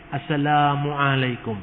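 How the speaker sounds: "Assalamualaikum" slowly, the A drawn out long; "Assalamualaikum" dengan A panjang. Shown as a demonstration. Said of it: "A-nya yang panjang".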